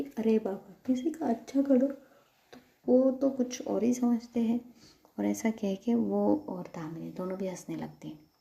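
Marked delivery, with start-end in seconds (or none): 0.0-4.8 loud, higher playful grumble; hammed-up complaint; mock exasperation. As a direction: protest as if wronged, in fun. Acted mock complaint before both laugh.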